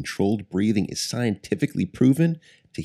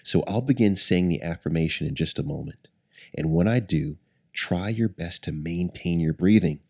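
guided meditation. Acted. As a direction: ease them into calm breathing. Leads a guided breathing meditation.

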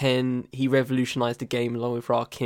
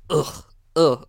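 drawn-out groan of disgust; disgusted ugh; 3 semitones higher, 4 dB louder than usual. Real, not acted. Podcaster recoiling from super thick accents, disgusted groan. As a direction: groan "ugh" as if it makes you cringe.

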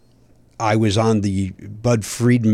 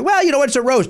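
mock diplomatic; 14 semitones higher than usual. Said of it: "I was trying to be diplomatic".

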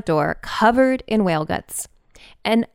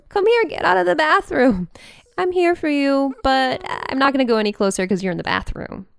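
higher, lightly voiced pleading pup; whimpering dog voice; 5 semitones higher than usual. Dog calling owner out of the bathroom, light pleading voice. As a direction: coax from the doorway. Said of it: "she did her little whimper, like".

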